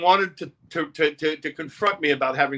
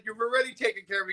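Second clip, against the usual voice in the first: sarcastic retort; 6 semitones higher, 6 dB quieter, faster than usual. Retold or imitated.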